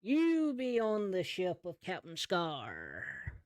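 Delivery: lightly voiced pirate boss, words stretched out; crocodile pirate captain. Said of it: "bigger crocodile walks down the stairs and says".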